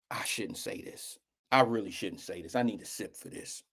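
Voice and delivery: hushed, low confiding whisper. Real, not acted. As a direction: whisper like a guilty secret. Confiding a secret.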